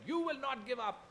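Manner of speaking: high, loud mock yell of his mother; retold mother yelling down the phone; mother's yell. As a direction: shout it like an angry mother. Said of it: "she just yelled at me".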